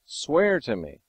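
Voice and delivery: slow, insistent, pressing oath; emphatic demand. Retold or imitated. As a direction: make him swear, leaning on swear. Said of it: "look how emphatic he was".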